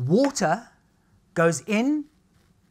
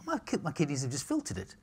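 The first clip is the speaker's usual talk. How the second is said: talking through a burp; 6 dB quieter than usual. Real, not acted. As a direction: burp mid-sentence. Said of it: "Excuse me, I'm burping".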